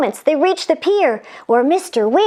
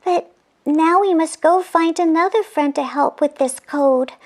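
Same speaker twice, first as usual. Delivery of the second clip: put-on lightly raised girlish voice; angel voice; 5 semitones higher than usual. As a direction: explain it with concern. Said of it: "continued Angel Scarlet".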